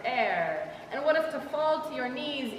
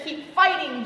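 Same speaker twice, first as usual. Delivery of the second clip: louder, pushing; forceful command; 4 semitones higher, 5 dB louder than usual. Retold or imitated. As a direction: bark it like an order. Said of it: "Religion says".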